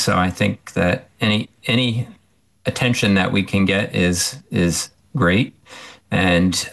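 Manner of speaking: measured, halting praise with ums and pauses; a little hesitant. Real, not acted. Professor welcoming support for tick research, a little hesitant. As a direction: hold back slightly, restarting words and pausing mid-thought. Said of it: "You sound a little hesitant".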